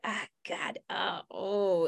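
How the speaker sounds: tight, dismayed groan. Shown as a demonstration.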